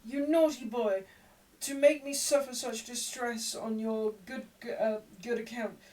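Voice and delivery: high, loud overwrought wailing; Nancy putting on a scene for onlookers; hysterical young woman. A narrator's reading. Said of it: "burst into another fit of crying".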